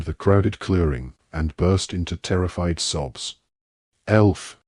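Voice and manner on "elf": a stern, louder call; sternly summoning the elf. Acted. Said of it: "said Mister Diggory sternly".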